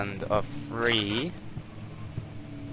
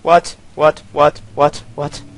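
startled; 3 semitones higher, 7 dB louder than usual. Real, not acted. Startled by piano in dark.

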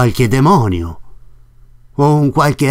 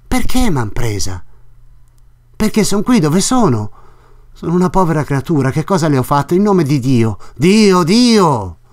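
put-on a lightly higher frightened young woman; Lucia, desperate and pleading; 5 semitones higher than usual. Narrator voices Lucia pleading.

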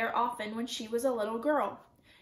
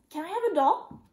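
put-on higher, louder childlike plea; eager little child; 5 semitones higher, 5 dB louder than usual. A narrator's reading. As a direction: beg lightly like a small child. Little sister begs for a doll.

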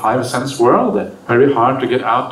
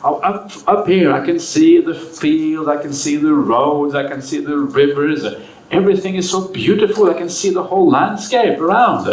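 mock shout down; 3 semitones higher than usual. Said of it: "he shouts down to his friend".

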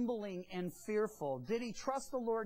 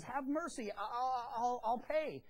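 begging; 3 semitones higher than usual. Acted. Debtor on his knees before his creditor, begging. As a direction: stumble over the promise like a desperate debtor. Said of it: "falls at his knees and says".

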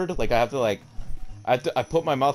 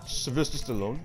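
high, indignant celebrity announcing himself; Sylvester Stallone; 7 semitones higher, 4 dB louder than usual. Acted. Star pulling rank on a stagehand, indignant Stallone impression. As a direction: puff up into an outraged movie star. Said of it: "I can't do this voice no more".

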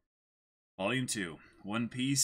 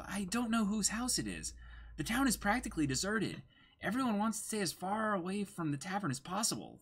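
higher, brighter cartoon voice, light and quick; dubbed anime girl; 11 semitones higher than usual. Reading anime lines aloud: higher dubbed cartoon voice. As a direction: play the sly thief teasing the boy. Voices Nami and Luffy dub.

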